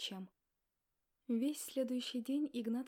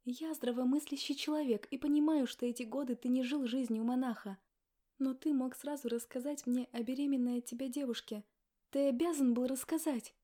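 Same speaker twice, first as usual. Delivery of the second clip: angry reproach; 3 semitones higher, 5 dB louder than usual. Acted. Wife blaming husband for hidden pregnancy, angry. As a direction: accuse him outright.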